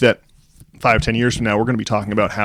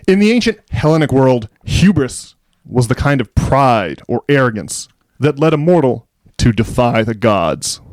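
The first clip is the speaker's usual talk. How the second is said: formal essay read. Shown as a demonstration. Host reading Ferguson's Wall Street Journal essay to listeners, measured formal reading. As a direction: read it like a solemn op-ed, savouring each line. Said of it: "I'll now do an essay read".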